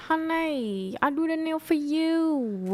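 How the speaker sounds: lightly put-on Vietnamese nail salon accent; a hint of a Vietnamese manicurist. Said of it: "can you do the Vietnamese accent here".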